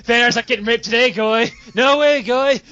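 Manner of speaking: mock bravado on the way out; defiant exclamation. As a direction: shout him down while you run. Fleeing, defiant quote.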